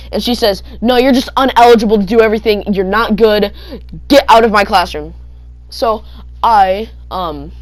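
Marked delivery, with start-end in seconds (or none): 0.8-5.1 loud, fast scolding teacher; angry teacher. Retold or imitated. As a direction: snap him out of the room. Teacher scolding kid in story.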